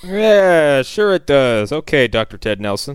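drawn-out mock agreement; acted skeptical put-down; sarcastic humoring. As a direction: humor a crackpot, openly doubtful. Mocking skeptics humoring the meteorologist.

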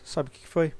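ordinary talk

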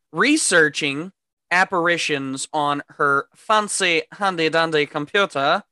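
playfully over-pronounced, RESEARCHING lifted at the start; affected fancy talk. Pretend. Podcaster hamming up the movie recap, affected fancy talk. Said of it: "when I talk like this".

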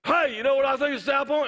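retelling a guy who talked loud in his face; in your face. Retold or imitated. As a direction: lean right into his face. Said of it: "that's how he talked, right in my face".

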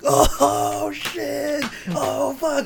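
very high, loud hammed-up hoots; mock crowd uproar. MPs erupting at the single-mother gaffe, very high loud mock hoots. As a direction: hoot like a whole rowdy chamber.

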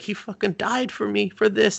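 high-pitched mock panic; imitated freaking out. Branded girl sure he died for her, imitated freaking out. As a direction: blurt it out as if freaking out. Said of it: "like, freaking out".

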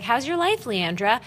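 lightly imitated bubbly friend; mildly perky retold greeting. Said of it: "bubbly and beautiful and blonde".

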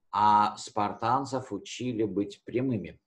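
usual speaking voice

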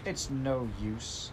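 slow, a touch of despair; hopeless tone. Acted. Heidi tells the grandmother she cannot learn, slow and hopeless. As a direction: give up before trying, slowly. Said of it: "said Heidi in a hopeless tone".

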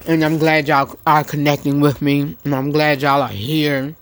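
talking while chewing; words round a bite of grits; mouth full. Real, not acted. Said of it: "What are you eating, Red?".

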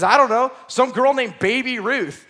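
put-on naive kid. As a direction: say it with no idea who she is. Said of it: "He says".

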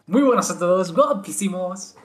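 hint of a Vegeta YouTuber greeting; light streamer intro voice. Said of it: "la intro de Vegeta". (imitando la intro de Vegeta)

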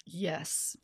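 cracked, breaking voice; voice cracking. Real, not acted. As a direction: voice cracks on the word. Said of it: "Also, my voice just cracked".

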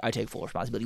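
imitating a subdued, sad official; somber. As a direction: quote him softly, with mild somberness. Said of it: "he sounded somber. He was sad".

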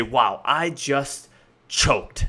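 emotionally charged. Shown as a demonstration. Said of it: "The word choked carries a lot of emotion".

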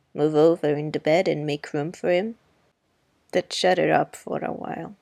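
put-on a touch of the wry older woman; lightly voiced Miss Maudie.

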